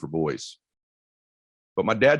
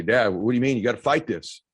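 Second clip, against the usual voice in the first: louder and higher pleading with his dad; urgent plea; 4 semitones higher, 3 dB louder than usual. Retold or imitated. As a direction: urge him to keep fighting. Pleading with dying father.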